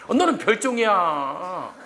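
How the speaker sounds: teasing retort. Retold or imitated. Teacher answering student in story.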